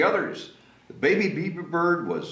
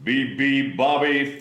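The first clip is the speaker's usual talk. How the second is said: mild mock thunder; 3 dB louder than usual. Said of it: "thundered the moose".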